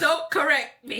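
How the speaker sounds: high voice through laughter; laughing mock plea. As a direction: imitate the child while cracking up. Voices the child, both laughing.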